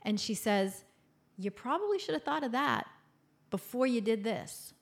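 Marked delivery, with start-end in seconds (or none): 1.4-4.7 higher, arch scolding; mother's pointed told-you-so; reproachful mom. Retold or imitated. Mother breaks free and answers daughter, reproachful mom. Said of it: "single one eyebrow lifted looks".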